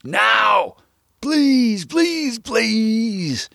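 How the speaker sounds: high, frantic pleading yell; desperate screaming plea. A narrator's reading. Narrator silently screams at the dog to come back, frantic. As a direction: beg him to come back in a panic. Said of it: "I would have screamed".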